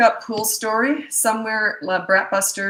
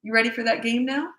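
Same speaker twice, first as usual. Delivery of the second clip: higher, inviting question; friendly parent offer; 5 semitones higher than usual. Shown as a demonstration. Parent checking back after half an hour, friendly offer. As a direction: ask it brightly, no grudge held. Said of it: "Then you say".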